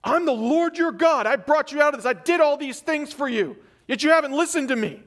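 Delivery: reading God's words as a stern rebuke; angry God. Shown as a demonstration. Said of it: "do we hear that with an angry tone? A sarcastic tone?".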